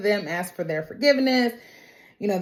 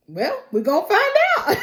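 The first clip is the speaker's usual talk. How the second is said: higher, cocky put-on voice for Moto; Moto's put-on voice; 11 semitones higher than usual. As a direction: play the Komodo dragon smug and sure.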